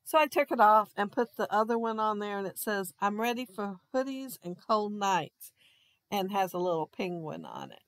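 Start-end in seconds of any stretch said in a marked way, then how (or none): 3.0-7.8 turned away from the mic; muffled, facing away from the microphone. Real, not acted. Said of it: "it sounds like I'm all muffled".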